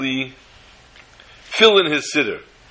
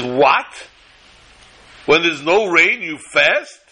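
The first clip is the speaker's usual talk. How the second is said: puzzled, disbelieving question; as if it makes no sense at all; bewildered; much slower than usual. Retold or imitated. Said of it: "looks at the Rav, bewildered, perplexed, befuddled".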